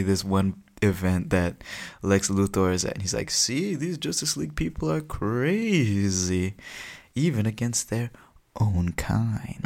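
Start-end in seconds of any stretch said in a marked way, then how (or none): 3.3-9.7 high, drawn-out appeal to the crowd; denouncing villain. Acted. Luthor tells onlookers the heroes are crazy, drawn-out denouncing. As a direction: stretch it out in scandalised accusation.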